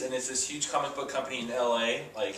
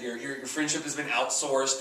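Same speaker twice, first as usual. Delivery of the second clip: put-on Indian accent. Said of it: "this heavy, like, Indian accent".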